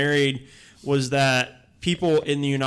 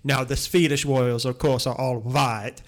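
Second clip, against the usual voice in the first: put-on Swedish accent. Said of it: "I am Sweden Frugertingen".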